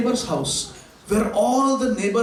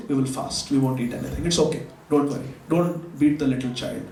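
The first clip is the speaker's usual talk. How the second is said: resigned sadness; 5 semitones lower than usual. Acted. The brahman tells the father they will fast, low and resigned.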